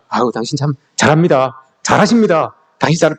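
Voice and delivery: mocking, sighing "잘하십니다" that means the opposite; sarcastic compliment. Shown as a demonstration. Preacher shows the wrong way to praise a neighbour, sarcastic. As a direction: praise with a sneer. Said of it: "비꼬지 마시고요".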